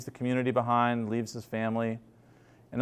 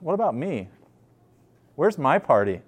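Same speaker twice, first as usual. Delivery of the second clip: wounded complaint; 2 semitones higher than usual. Retold or imitated. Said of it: "He says".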